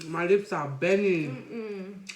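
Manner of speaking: laughing. Real, not acted. Laughing about burning lips.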